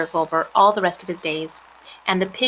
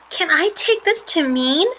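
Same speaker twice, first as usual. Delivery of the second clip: higher-pitched pig voice; hopeful pig; 9 semitones higher than usual. A narrator's reading. Wilbur asks spiders about staying, high hopeful voice. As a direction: ask hopefully as the little pig.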